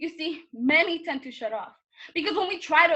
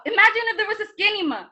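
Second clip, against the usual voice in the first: higher, louder mocking call-out; retold jeering shout; imitated scream; 6 semitones higher, 6 dB louder than usual. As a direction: call it out like a classroom taunt. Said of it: "He screamed out".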